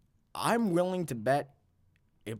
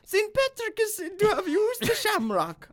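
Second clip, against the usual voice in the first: hammed-up Irish accent, much higher, laughing; terrible Irish accent; 8 semitones higher than usual. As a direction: overdo the Irish brogue. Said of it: "That was, that's a terrible accent".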